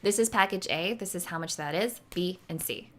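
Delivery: matter-of-fact package rundown; congruent statement. Shown as a demonstration. Coach modelling a pitch to clients, congruent and assured. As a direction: state each option as settled fact. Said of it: "in alignment. Be congruent when you say it".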